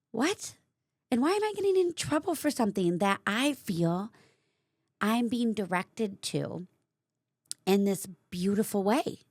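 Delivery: high, incredulous what; indignant disbelief. Real, not acted. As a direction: pitch jumps up in outraged confusion.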